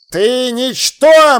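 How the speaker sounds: slow, scornful elf voice; contemptuous elf lord. A narrator's reading. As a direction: belittle the boy and his goat. Elf lord threatens to kill. (презрительный эльфийский лорд)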